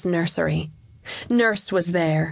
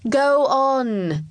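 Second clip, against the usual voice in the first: put-on high boyish urging; impatient prompting; 6 semitones higher, 3 dB louder than usual. Young king pressing the hesitant Chancellor, high and impatient. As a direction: urge him on, pitched up.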